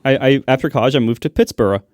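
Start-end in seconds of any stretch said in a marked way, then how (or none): 1.3-1.8 Pittsburgh ending in "burra"; joke pronunciation. Pretend. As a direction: give Pittsburgh the Edinburgh "buh-ruh" ending. Jokes with same mangled ending.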